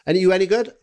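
high, loud Valleys challenge; Pontypridd-Merthyr accent. Retold or imitated. Fan sizes up his drinking opponent, in Pontypridd accent. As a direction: size up a rival in Pontypridd accent. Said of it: "I'll do him as Pontypridd".

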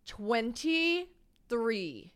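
very slow TWENTY-THREE, broken into pieces; drawn-out disbelief. Real, not acted. Woman digesting guest's real age, "Twenty-three" drawn out in disbelief. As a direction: stretch out "Twenty-three" syllable by syllable.

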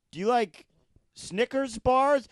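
high, slow, stretched-out question; drawn-out bait question. Acted. Cop baits bank robbery suspect with candy, drawn-out. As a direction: stretch it out innocently, pitch lifted.

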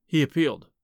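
ordinary delivery

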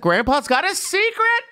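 a gleeful whispered-secret tease; sing-song gossip. Pretend. Gossiping about grandpa's secret.

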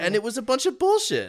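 high, fast, hammed-up rant; mock outrage. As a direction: rant it like a cartoon villain.

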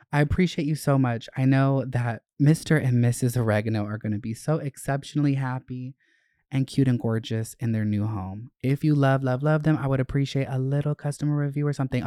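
lively letter read, words tumbling fast at times; reading a letter aloud. Acted. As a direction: read the fan note aloud with gusto. Reads fan's note aloud.

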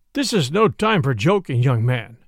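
stern reprimand, dropping low at the end; understated severity; severe. Acted. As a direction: sternly put the young man in his place. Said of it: "said the sheriff severely".

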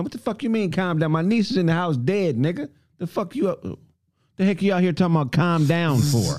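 high, indignant retort to a cop; a man snapping back at a cop telling him to calm down; retold angry outburst. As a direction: push back hard at the officer, mock outraged. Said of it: "retold argument with police".

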